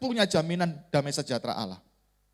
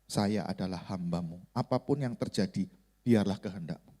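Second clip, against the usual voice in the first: retold brokenhearted prayer; 5 semitones lower than usual. Preacher re-enacts his tearful surrender to God, low and subdued. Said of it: "saya hancur hati, saya nangis".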